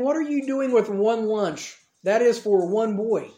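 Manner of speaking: slow, drawn-out scoffing; mocking. Crowd mocking Andrew over one lunch, mocking. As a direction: spell out the objection slowly, mildly mocking. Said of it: "mocking and making fun of Andrew".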